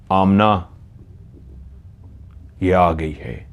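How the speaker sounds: measured, understated authority with long pauses; commanding. Retold or imitated. Fairy-like girl calls Amna forward to recite, calmly commanding. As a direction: give slow orders like a boss, without raising the voice. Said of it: "उसकी आवाज़ में ऐसा तहक्कुम था".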